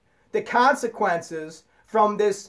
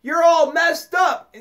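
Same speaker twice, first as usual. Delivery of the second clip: higher, scornful finger-pointing voice that slows at the end; mock accusing jab; 5 semitones higher than usual. Mimicking a judgmental person pointing out faults, scornful and higher. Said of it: "and you say".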